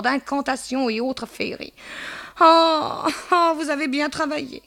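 high-pitched, theatrical pity; lamenting landlady. Acted. Madame Dehan bemoaning her tenant's fate, high lamenting voice. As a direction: wail and scold in a high old-gossip register.

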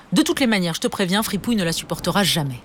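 maman agacée qui coupe court; mère énervée. Acted. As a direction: clore la conversation avec sèchement. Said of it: "De plus en plus énervée". (mère qui coupe court, agacée)

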